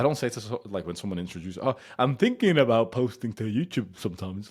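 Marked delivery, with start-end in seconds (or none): 1.6-4.5 higher, louder whiny hedging; weak timid voice. Retold or imitated. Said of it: "you speak like a fucking bitch".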